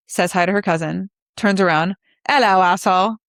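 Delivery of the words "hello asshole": sassy greeting. Retold or imitated. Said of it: "the way she says it, it's just perfect".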